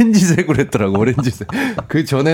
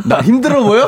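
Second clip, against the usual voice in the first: high, louder mock-delighted question; mock smiling question; 10 semitones higher, 4 dB louder than usual. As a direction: imitate someone grinning as they ask. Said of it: "하면서 웃는 것도".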